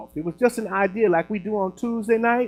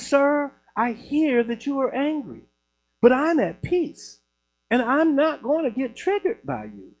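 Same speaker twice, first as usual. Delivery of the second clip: higher-pitched, measured mock composure; real calm; 6 semitones higher than usual. Calm man answers an angry prank caller, real calm. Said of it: "was, like, real calm".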